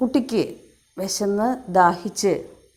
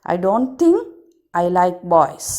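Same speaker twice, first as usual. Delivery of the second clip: swallow's loud reply; 4 dB louder than usual. Acted. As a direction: declare it loudly as the proud swallow.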